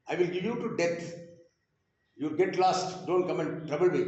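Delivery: irritated father. Retold or imitated. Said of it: "in the moment of irritation".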